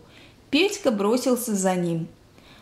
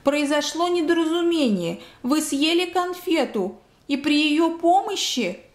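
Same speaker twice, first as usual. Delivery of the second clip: higher-pitched, slowed, stretched-out explanation; doctor calling up; 6 semitones higher than usual. A narrator's reading. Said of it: "закричал детский доктор".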